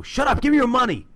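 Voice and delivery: loud, high mock robbery demand; acted mugger's shout. Mugger demanding money from a victim, loud acted shout. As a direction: yell it like a comic-book mugger.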